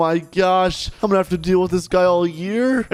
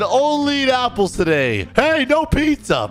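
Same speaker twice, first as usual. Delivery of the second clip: high-pitched bossy scolding; yelling teacher; 9 semitones higher than usual. Retold or imitated. Strict teacher banning pizza in cafeteria, mock yelling. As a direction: forbid it in a high mock yell. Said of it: "Bro just yells the whole time".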